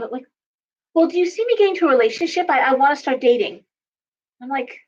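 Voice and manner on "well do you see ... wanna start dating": high, fast imitation of a client; mock client, quick and much higher; hopeful client. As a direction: rush it like an eager client asking about dating. Client voiced in retold reading.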